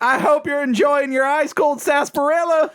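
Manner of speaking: high Southern twang; Georgia accent. Pretend. Co-host wishing an enjoyable drink, in a Georgia accent. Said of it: "is this a Georgian accent?".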